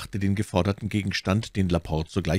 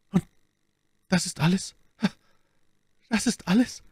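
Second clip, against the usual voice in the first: high, insistent question, higher on the repeat; impatient; 13 semitones higher than usual. A narrator's reading. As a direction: press impatiently for more, voice climbing. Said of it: "fragte Buckingham mit Ungeduld". (ungeduldig nachfragend)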